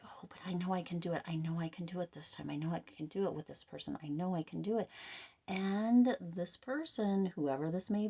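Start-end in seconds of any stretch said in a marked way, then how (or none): 0.0-4.9 put-on hurried, hushed hopeful child inside; a lightly voiced inner child, whispering fast; inner child's voice. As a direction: rush it in a soft whisper, pleading with yourself. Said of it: "Your inner child is like".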